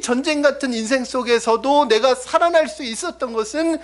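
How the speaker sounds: loud, high, driving sermon voice; full-force preaching. Acted. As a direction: preach it out to the whole church. (힘차게 외치는 설교)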